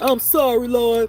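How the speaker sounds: mock, fake tearful crying voice. Imitating someone being punished by God, mock crying apology. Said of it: "Why you crying?".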